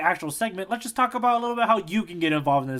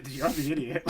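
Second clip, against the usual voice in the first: cute retort; 2 semitones lower, 5 dB quieter than usual. Retold or imitated. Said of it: "like a real cute".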